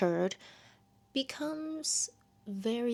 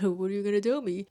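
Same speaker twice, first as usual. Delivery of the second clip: excited; 4 dB louder, faster than usual. Retold or imitated. Ember excited, voiced in retelling.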